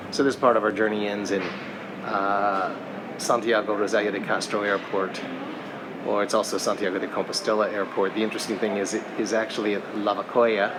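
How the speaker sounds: muffled through a face mask; face buried in fur. Real, not acted. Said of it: "If I sound muffled, it's because I'm wearing my mask".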